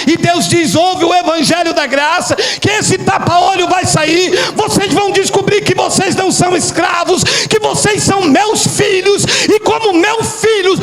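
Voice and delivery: building, climbing sermon proclamation; preacher rising to a climax; fervent preaching. Real, not acted. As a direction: build to a triumphant, drawn-out finish. Preaches at full force.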